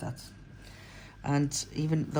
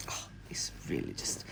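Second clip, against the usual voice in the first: whispering; 10 dB quieter than usual. Real, not acted. Aside while working.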